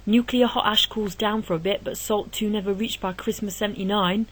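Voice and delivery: a lightly put-on Ali G London street accent, slipping toward Cockney; bad Ali G accent. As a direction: chant it like a half-hearted Ali G, accent wobbling. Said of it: "really bad accent".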